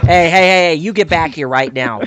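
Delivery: half-joking stern dad yelling; mock scolding parent. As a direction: call him back like an angry parent.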